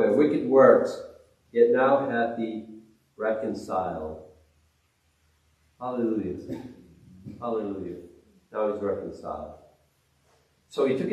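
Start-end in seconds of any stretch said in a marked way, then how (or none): 1.5-9.5 hushed awe. Real, not acted. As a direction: let the words sink in quietly.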